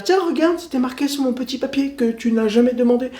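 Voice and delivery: a lightly voiced sly driver; mock taxi hustler. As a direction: play the shady cabbie pushing his fake price. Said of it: "il va te dire".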